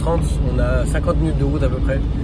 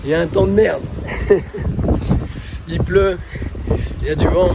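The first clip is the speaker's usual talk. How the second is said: loud over the wind; 5 semitones higher, 3 dB louder than usual. Real, not acted. Arriving in wind and rain.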